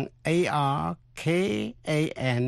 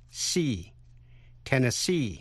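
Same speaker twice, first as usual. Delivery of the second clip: the syllable "see" alone, then Tennessee as "ten-nes-SEE"; stress on last syllable. Shown as a demonstration. Teacher drilling the stressed ending, Tennessee stressed last. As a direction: isolate and lean on SEE of Tennessee. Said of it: "nhấn mạnh ở vần cuối".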